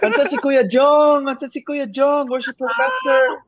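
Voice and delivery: put-on high, loud, fan-girl call; excited fan calling out. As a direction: shout for Kuya Jong like an eager fan. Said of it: "fans or people would ask for".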